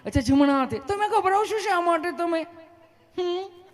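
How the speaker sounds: high, sweet nurse voice; mock female nurse, kindly questioning; loving nurse. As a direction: coax the patient in a put-on high voice. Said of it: "તમે કેટલું પ્રેમથી પૂછો છો".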